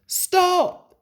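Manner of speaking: sudden high, loud shout; shouted stop. A narrator's reading. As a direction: yell stop to halt the train. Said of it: "Thomas called to Duck".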